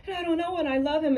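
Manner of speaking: high-pitched mimicked breakdown; mock crying. Woman breaking down to her mother, high mock crying. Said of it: "she's breaking down and she's crying now".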